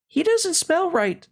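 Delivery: high, startled exclamation; exclaimed. A narrator's reading. Wild rabbit recoils from the toy rabbit, high and startled. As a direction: blurt it out in alarm. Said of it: "he exclaimed".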